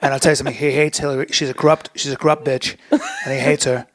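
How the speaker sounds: a light, half-hearted Trump impression; lightly voiced Trump rally talk; bad Donald Trump. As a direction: brag like Trump, loosely. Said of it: "that was a bad Donald Trump".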